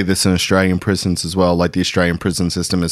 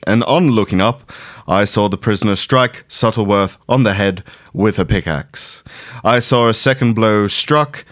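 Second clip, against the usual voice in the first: newsreader voice. Acted. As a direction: read it like an old radio newsreader. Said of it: "I get to do my newsreader voice".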